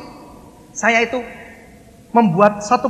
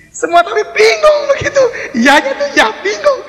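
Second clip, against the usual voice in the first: high laughing voice, much louder; giggling at how baffled everyone was; 5 dB louder than usual. Real, not acted. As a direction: laugh through the words, amused at the confusion.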